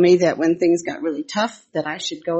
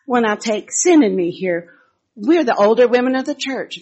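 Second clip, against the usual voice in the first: imitating Bonnie; 5 semitones higher, 4 dB louder than usual. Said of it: "And Bonnie says".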